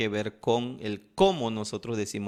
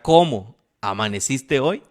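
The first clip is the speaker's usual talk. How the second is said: a curt, louder ¿Cómo amaneciste hoy? with a rise on "cómo"; irritated question; 6 dB louder than usual. Shown as a demonstration. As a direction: ask it fed up, on the edge of a breakup. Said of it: "en una etapa crítica de su matrimonio". (esposo harto preguntando "¿Cómo amaneciste hoy?" con fastidio)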